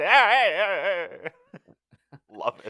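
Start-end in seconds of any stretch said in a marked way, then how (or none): 0.0-1.3 high loud barker calls; carnival barker hey. Retold or imitated. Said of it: "lean into that".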